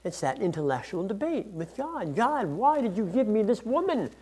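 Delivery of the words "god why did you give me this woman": higher-pitched, protesting question; blaming God. Acted. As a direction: challenge God as Adam, shifting the blame. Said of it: "He's blaming God".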